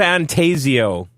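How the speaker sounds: "Refantasio" as ree-fan-TAY-zee-oh; ReFanTAYzio pronunciation. Shown as a demonstration. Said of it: "I don't know how to say this".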